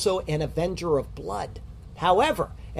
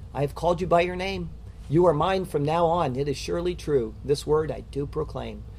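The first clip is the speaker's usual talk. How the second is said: measured poetic recitation of a promise; recited poem. Acted. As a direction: read it as a solemn verse.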